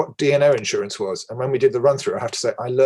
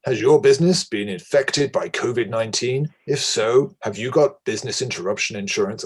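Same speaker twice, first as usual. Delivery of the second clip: a light, self-mocking American movie-trailer voiceover accent; hammed-up American ad announcer, only lightly done. Shown as a demonstration. Webinar chair jokingly trying his American voiceover accent on the audience. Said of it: "my American voiceover bit".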